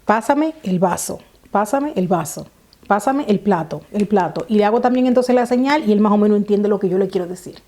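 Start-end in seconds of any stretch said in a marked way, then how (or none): 0.0-4.5 slow, evenly spaced short commands; direct, clear orders. Shown as a demonstration. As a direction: give simple instructions, pausing between each part. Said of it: "darle órdenes directas y claras".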